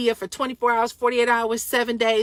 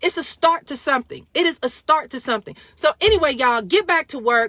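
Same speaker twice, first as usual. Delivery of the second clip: usual speaking voice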